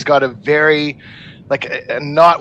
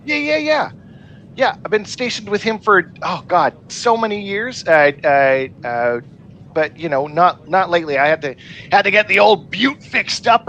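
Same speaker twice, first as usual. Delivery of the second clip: high, breezy, easygoing chatter; laid-back charmer voice; suave guy voice; 4 semitones higher than usual. Acted. S0 voices Ensign Jeff.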